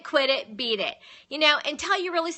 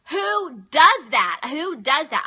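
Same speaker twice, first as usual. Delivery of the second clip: mock indignation, slow and punched at first; retold outrage; 2 semitones higher, 4 dB louder, slower than usual. Wife recalling fury at the other woman, retold outrage. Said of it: "I was so angry".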